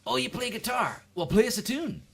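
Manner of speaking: high-pitched mock eager demand; imitating an excited, presumptuous acquaintance; pushy request. People finding out you're a musician, high mock-eager demand. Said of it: "they expect you to play them a song".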